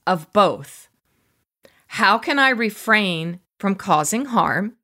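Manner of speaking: deliberate book reading in paused phrases; reading aloud. Real, not acted. Host reads the author's practice to listeners, deliberate reading. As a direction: read it out with emphasis, phrase by phrase.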